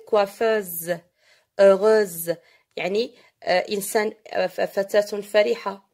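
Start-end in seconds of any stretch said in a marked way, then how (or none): 0.1-2.4 "Coiffeuse, heureuse" with the final z held out; pronunciation model. Shown as a demonstration. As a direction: model "Coiffeuse, heureuse" word by word, the -euse ending drawn out. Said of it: "Alors, comment le prononcer?". (prononciation modèle de « Coiffeuse, heureuse », le z final allongé)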